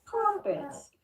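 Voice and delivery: high, slow hammed-up Australian accent; mock Australian accent. Teasing friend with a jokey high, slow Australian accent. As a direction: stretch it out like a cartoon Aussie. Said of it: "Michelle can do the rapper".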